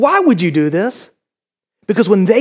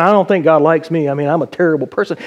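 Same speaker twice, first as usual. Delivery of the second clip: lightly voiced, lower self-deprecating mumbling worry; mock self-doubt; 3 semitones lower, faster than usual. Preacher voices doubting believers, mildly glum. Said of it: "we walk around all the time going".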